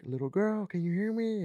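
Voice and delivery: put-on high call to the little girl. Searching the yard, calling to the crying girl. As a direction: call across the rain to a child. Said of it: "And I'm like".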